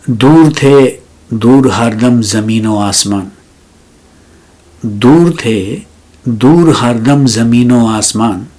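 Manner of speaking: measured ghazal recital with long pauses; poetry recitation. Acted. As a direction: lean on each opening word, ease into the refrain.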